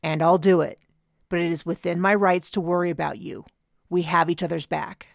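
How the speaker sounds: calm, steady reassurance. Acted. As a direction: speak very calmly. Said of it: "it was very calmly".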